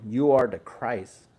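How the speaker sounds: slow, weighty, each word given its place; slow emphatic declaration. Shown as a demonstration. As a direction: say "You are the Christ" slowly, as the true answer. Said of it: "which is the right answer".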